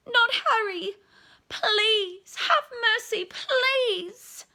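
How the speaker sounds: high, loud desperate begging; pleading scream. Acted. Mother begging for her son's life, screaming. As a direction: plead for your child's life. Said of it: "The woman was screaming".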